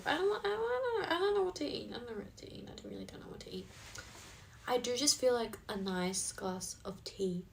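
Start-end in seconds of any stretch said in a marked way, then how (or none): 0.1-1.9 high, softly sung-out indecision; playful dithering. Real, not acted. Wondering aloud what to eat, playful high dithering. 1.9-3.7 very soft, trailing into a whisper; fading dithering. Real, not acted. Wondering aloud what to eat, fading into a whisper.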